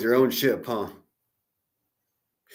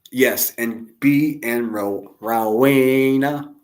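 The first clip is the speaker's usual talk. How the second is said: mocking drawl; 5 dB louder, much slower than usual. Drawn-out mocking name.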